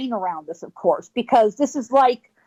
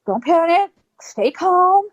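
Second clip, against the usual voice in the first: tag; 6 semitones higher, slower than usual. Retold or imitated. Retold self-talk in a standoff.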